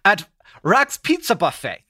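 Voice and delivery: put-on weak German accent; half-hearted try at a German accent; attempted German accent. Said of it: "read it to you in a German accent".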